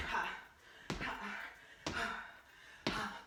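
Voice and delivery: short exertion exhales; rhythmic workout puffs; breathing out. Shown as a demonstration. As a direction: puff out a breath with each hop. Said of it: "Breathe out".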